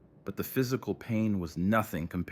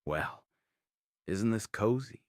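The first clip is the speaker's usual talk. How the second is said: mocking sneer; 2 semitones higher than usual. A narrator's reading. Rick taunts the two men he has caught, mocking. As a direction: sneer it like mock politeness. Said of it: "his voice dripping with mockery".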